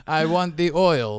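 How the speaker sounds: slow, laughing vampire count voice; hammed-up Vlad the Impaler. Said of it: "sounded like Vlad the Impaler".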